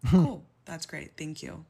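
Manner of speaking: loud, sarcastic "cool". Real, not acted. Reacting to the useless helpline, loud sarcasm. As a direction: bite out a mock-cheerful cool.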